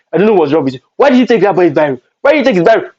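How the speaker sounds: imitating big sister's rising telling-off; sister scolding.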